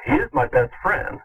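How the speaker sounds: a hint of Kirk's dramatic delivery; Captain Kirk voice. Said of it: "as Captain Kirk says".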